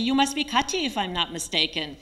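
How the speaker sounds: big hearty welcome, first words lifted high; hearty greeting. Retold or imitated. Local fixer greeting the newly arrived reporter, hearty. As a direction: greet her like a jovial old friend. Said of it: "with a hearty".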